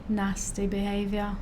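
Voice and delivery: slow mock British scolding; British accent. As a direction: put on an amateur British accent, drawn out. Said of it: "Your British accent".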